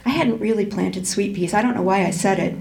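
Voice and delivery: steady storytelling voice, voicing the dialogue lightly; audiobook-style narration of a tense family scene; reading a novel aloud. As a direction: read the passage to the class like a story. Reads a novel passage aloud.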